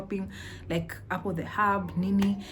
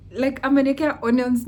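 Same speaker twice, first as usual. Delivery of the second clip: indignant rant; 6 semitones higher, 8 dB louder than usual. Retold or imitated. Inner rant at onion server.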